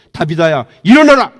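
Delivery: authoritative shout; commanding call. Acted. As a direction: call her up from death. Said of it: "이렇게 얘기합니다".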